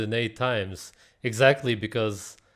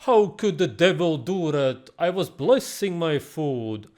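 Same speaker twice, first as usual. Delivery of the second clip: mocking believer. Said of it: "and then you say".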